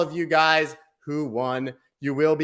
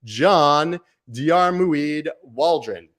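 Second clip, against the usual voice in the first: slow, booming player introduction, higher and louder; sports announcer; 4 semitones higher, 3 dB louder, slower than usual. Pretend. Streamer introducing winner like a basketball player, announcer voice. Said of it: "I have a pretty good announcer voice".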